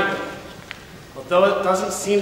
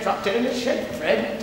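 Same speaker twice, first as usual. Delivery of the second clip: sharp retort; 4 semitones higher than usual. Acted. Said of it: "Teddy returned sharply".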